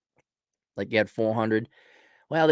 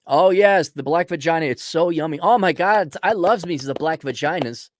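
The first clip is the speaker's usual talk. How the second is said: higher hammed-up swooning; mock rapture; 5 semitones higher than usual. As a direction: gush mockingly like a devoted convert. Continues mocking the employees' worship.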